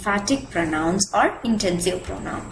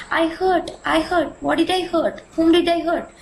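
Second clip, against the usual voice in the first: puzzled question; 6 semitones higher than usual. Shown as a demonstration. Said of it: "When you remove myself from the sentence".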